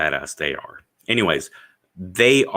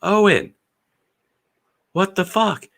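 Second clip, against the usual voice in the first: high, loud yell of an outraged wife; wife coming home to drunks in the yard, yelling high; shrill angry wife; 13 semitones higher, 6 dB louder than usual. Retold or imitated. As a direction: shriek her husband's name in outrage. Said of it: "his wife comes home and goes".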